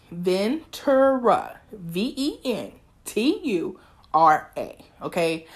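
slow, drawn-out name with a touch of sass; a little attitude. Shown as a demonstration. Host insists listeners get her name right, drawling it with mild attitude. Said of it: "sorry if I had a little attitude when I said that".

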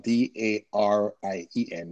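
letter by letter, steady; spelling it out. Real, not acted. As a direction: spell each letter clearly. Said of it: "my first name is spelled".

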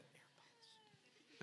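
tiny, whispery high imitation; wife's high-pitched voice. Husband mimicking his wife wanting AirPods, tiny high voice. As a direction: squeak it very softly as the wife. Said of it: "talking that high-pitched voice".

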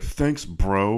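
dry mock-sarcastic quote. Host quoting the coach's reply to kids, sarcastic. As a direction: imitate a coach brushing off a kid. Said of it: "like, very sarcastically".

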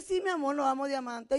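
imitating an unimpressed husband, lightly placating; humouring reply. Husband placates wife without understanding her, mildly humouring. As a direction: go along with it without real excitement.

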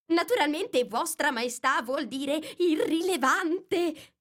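rabbit's overly respectful tone; respectful correction. Acted. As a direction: correct the king politely. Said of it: "con tono molto rispettoso".

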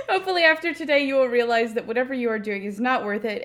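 talking through giggles, fast; laughing. Real, not acted. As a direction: laugh while you tease.

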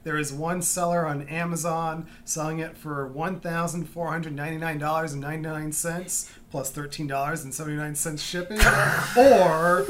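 infomercial. Acted. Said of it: "it sounded like a fucking infomercial".

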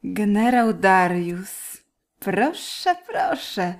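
powoli, kpiąco przeciąga słowa; drwiący ton. Acted. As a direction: kpij z generała, leniwie. Katarina drwi z generała. (drwiący, przeciągły ton)

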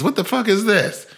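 shocked at the video, hammed up; mock outrage. Blue Ivy shocked at her mother's video, mock outrage.

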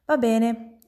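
put-on mild exclamation cutting the girl off; understated amazed exclamation; exclaiming. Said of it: "esclamò la signorina Dolcemiele".

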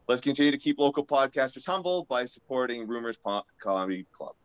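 light sponsor ad read. Acted. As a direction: pitch the club like a radio spot. Reads sponsor ad.

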